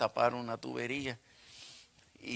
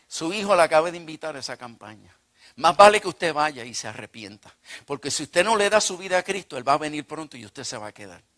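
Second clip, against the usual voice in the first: plumber preaching; 3 semitones higher, 6 dB louder than usual. Retold or imitated.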